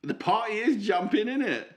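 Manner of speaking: put-on high-pitched cheeky British accent; Alfie, British accent. Co-host introduces new persona, high British accent. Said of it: "put me British accent on".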